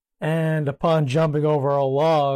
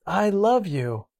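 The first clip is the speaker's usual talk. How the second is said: echo; 6 semitones higher than usual. Retold or imitated. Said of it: "responded back".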